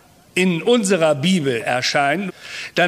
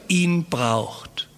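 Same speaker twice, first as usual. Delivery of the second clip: whisper; 4 dB quieter than usual. Acted. Reverent close on God's name.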